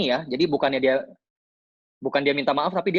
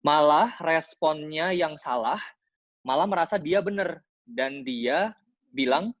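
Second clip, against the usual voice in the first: slow read-out question. Shown as a demonstration. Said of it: "aku bacain sekali lagi".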